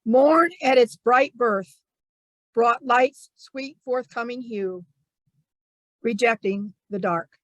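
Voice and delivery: spaced-out lines, leaning on the opening word; haiku recital. Acted. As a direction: read a haiku with long pauses between lines. Reads own haiku aloud.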